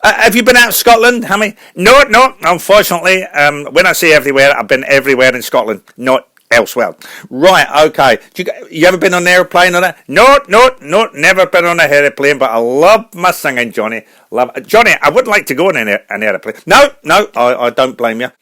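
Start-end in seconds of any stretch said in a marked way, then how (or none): 1.8-7.0 Scottish singer explaining himself to the host; Scottish accent. Acted. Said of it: "a Scottish singer". 10.1-16.5 chatty wee Scottish singer; Scottish accent. Acted. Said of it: "a Scottish singer".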